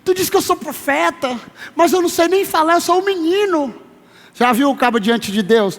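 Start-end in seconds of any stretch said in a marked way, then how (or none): 0.0-3.8 put-on high, protesting boyish voice; acted youngster's high-pitched complaint; Jeremias. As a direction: plead your unfitness in a raised pitch. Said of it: "Jeremias um dizendo".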